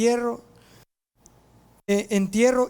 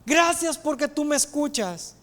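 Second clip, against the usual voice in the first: raised, ringing prayer; cried-out prayer; 3 semitones higher than usual. Acted. Jesus prays aloud before the tomb, cried-out prayer. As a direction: call out to God in a lifted voice. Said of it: "Jesús grita".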